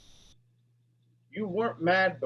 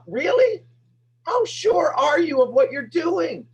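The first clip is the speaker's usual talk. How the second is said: challenging shout; 12 semitones higher, 6 dB louder, slower than usual. Real, not acted. Coach challenges audience, shouting.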